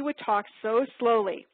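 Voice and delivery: slowed right down on "would talk so slowly"; slow drawl. Retold or imitated. Recalling her college dorm neighbour's speech, slowed down. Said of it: "I would talk so quickly and she".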